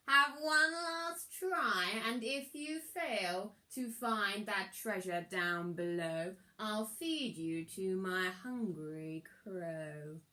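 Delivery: slow, menacing villain threat; understated sinister threat; threatening wizard. Acted. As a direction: warn him like a cold-hearted sorcerer.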